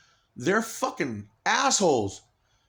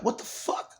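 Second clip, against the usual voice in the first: whispered what the fuck; reacting to the taunting noise in a stunned whisper; whispered disbelief; 8 semitones higher, 4 dB quieter than usual. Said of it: "I'm like".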